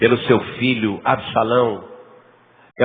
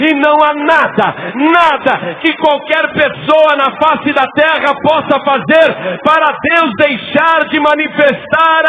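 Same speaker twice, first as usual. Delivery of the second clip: high, shouted, fervent sermon climax; preaching at full force; 12 semitones higher, 6 dB louder than usual. Real, not acted. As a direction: drive it home to the congregation, slowing on the last words.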